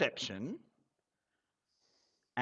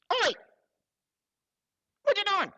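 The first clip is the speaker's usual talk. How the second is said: very high, loud squawk of a startled little creature; high-pitched creature yelling oi; shrill creature shout; 6 dB louder, faster than usual. Acted. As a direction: yell it like a tiny goblin caught out. GM voices creature shouting at player.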